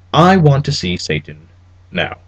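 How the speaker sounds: put-on cold, clipped German accent, each word cut short; a German necromancer demanding to see Satan; a hint of a clipped German accent. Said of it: "Cabal's accent was clipped and fatally Teutonic".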